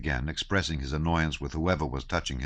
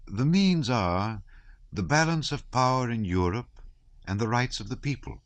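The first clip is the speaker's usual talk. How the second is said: earnest abbé; 6 semitones higher than usual. Acted. Abbé lecturing Pierre on politics, raised and earnest. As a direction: lecture the room on his pet cause. Abbé expounding his theory.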